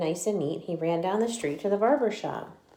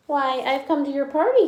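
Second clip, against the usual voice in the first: Dandelion voice; 8 semitones higher, 6 dB louder than usual. Acted. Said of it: "he answered".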